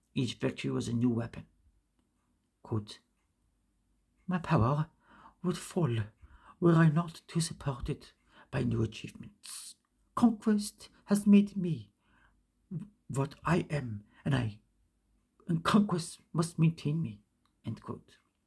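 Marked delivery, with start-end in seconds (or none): 4.3-17.2 put-on French accent. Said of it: "I don't know if I did that French accent correctly".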